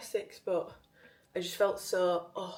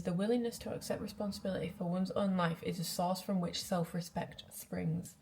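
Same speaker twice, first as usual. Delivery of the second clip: reading aloud. Real, not acted. Reads quote from Daily Stoic.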